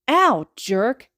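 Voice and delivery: playful hurt retort; a half-growled complaint; mock growl. A narrator's reading. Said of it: "Tsubasa growls".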